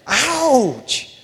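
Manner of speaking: drawn-out, high-pitched "Ouch"; exaggerated mock wince. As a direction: play up the sting of it. Bigger repeated mock wince.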